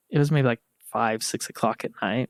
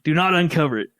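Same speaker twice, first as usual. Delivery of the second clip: urgent orders; 4 semitones higher than usual. Retold or imitated. Urgent orders to cover noses.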